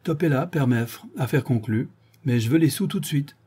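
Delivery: mildly excited agreement; eager exclamation. Acted. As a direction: exclaim to seal the bargain. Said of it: "mais l'homme s'écria".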